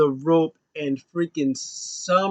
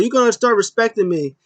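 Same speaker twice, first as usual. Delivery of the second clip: stern ref; 6 semitones higher, 4 dB louder than usual. Retold or imitated. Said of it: "He was like".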